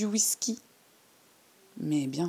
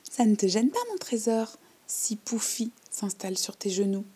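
rattle-voiced old lady; 3 semitones higher than usual. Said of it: "de sa voix de crécelle".

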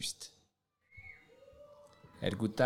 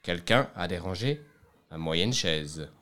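a hint of a lower, steady bear voice; mildly grumbled middle bear; middle bear's middle voice; 4 semitones lower than usual. The middle bear finds his chair disturbed, lightly voiced. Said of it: "d'une moyenne voix".

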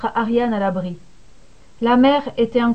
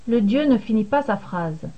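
plain reading voice

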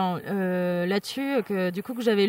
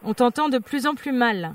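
slower, spelled out for a bad line; slow repeat. Real, not acted. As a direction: repeat it slowly so it gets through.

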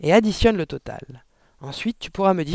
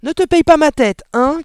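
high, loud outraged shouting; angry shout; 11 semitones higher, 11 dB louder than usual. A narrator's reading. Father refusing his daughter's excuse, shouting angrily. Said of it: "cria le père".

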